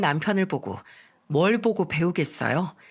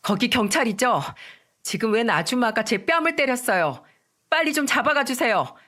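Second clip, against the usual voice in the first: mild loud call to police; 4 semitones higher than usual. Acted. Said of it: "큰 목소리로 말했죠".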